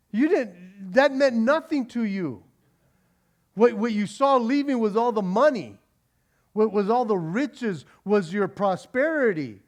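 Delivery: accusing rebuttal. Retold or imitated. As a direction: call him out.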